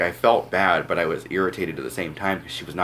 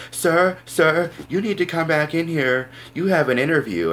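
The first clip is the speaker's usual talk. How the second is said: high, loud yelling after someone; retold screaming; 12 semitones higher, 5 dB louder than usual. Clerk yelling after a departing customer, loud shout. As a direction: call him back in at full shout. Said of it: "came outside the door screaming at me".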